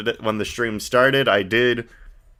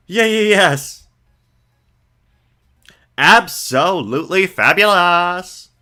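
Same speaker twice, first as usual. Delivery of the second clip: put-on higher, brighter girl voice; Maya voice; 7 semitones higher, 5 dB louder, slower than usual. Streamer voicing Maya to the viewers, girlish and high. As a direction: play an eager young girl. Voices characters reading game text.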